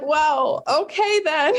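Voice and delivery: high, clipped-sounding mock Brit; mock British guy. Imitating boyfriend's response to the mouse, British. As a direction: toss it off like an unflappable Brit. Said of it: "The most, like, British response".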